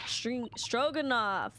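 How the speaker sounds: Stroganoff said slowly after a stumble; correcting the name. Shown as a demonstration. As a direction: fix the name carefully. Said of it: "stringy knot crewman".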